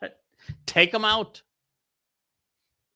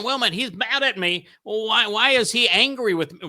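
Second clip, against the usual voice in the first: mock whiny complaint; 5 semitones higher than usual. Listener's complaint acted out.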